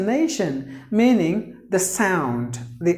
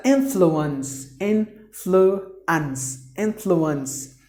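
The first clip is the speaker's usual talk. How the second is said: "influence" slowed, with IN stressed; stress on first syllable; much slower than usual. Shown as a demonstration. Teacher modelling where stress falls, first syllable. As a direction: put the weight on the IN of influence. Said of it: "stress is given in the beginning".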